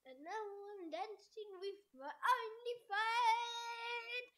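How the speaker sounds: talking around a flashlight in the mouth; words blurred by an object held in the mouth; mouth propped open. Real, not acted. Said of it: "I have a flashlight in my mouth".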